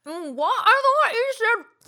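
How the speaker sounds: high loud shocked squeal. Acted. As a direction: squeal it out in disbelief. Shocked at severed hand story.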